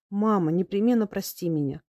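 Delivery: ordinary delivery, nothing marked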